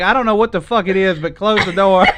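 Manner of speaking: loud, exasperated outburst; exasperated yell. Retold or imitated. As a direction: shout it in disgust. Yelling at wife at fridge.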